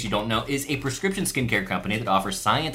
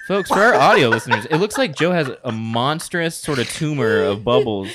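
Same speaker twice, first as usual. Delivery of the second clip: laughing; 6 dB louder than usual. Real, not acted. Describing bubble mess while laughing.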